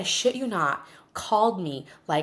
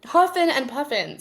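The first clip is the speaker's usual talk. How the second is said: laughing repeat; 8 semitones higher, 4 dB louder than usual. Real, not acted.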